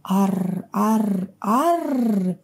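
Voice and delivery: a bear cub's roar. A narrator's reading. Bear cub beats his chest and roars at the tiger. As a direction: roar at the tiger with all your might. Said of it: "зарычал изо всех сил".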